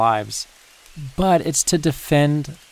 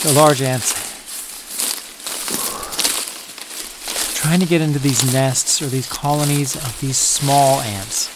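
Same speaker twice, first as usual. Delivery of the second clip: catching breath mid-sentence; short on breath, pushing on; gasping between phrases. Real, not acted. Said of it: "let me catch my breath".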